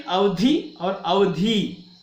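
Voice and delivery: अवधि with short धि, then अवधि with long धी, slowly. Shown as a demonstration. Teacher contrasting short and long धि in अवधि, slowly. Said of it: "ह्रस्व और दीर्घ के कारण".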